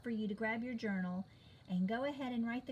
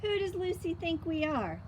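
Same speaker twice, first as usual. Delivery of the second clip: indignant question; 7 semitones higher, 4 dB louder than usual. Acted. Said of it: "asked Peppermint Patty".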